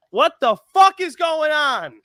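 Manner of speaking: high, exasperated disbelief; exasperated outburst. Real, not acted. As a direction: throw up your hands in disbelief. Repeated outburst, much higher.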